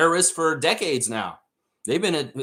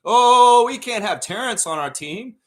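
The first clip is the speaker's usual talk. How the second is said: high, loud gasp of fake outrage; hammed-up scandalized fan; mock morality police; 8 semitones higher, 7 dB louder, slower than usual. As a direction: parody the pearl-clutching critics. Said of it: "morality police came out".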